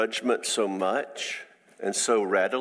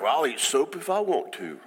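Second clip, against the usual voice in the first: put-on defiant child.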